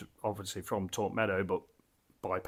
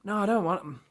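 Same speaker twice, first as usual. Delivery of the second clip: whisper; 7 semitones higher than usual. Real, not acted. Mutters to himself mid-tasting.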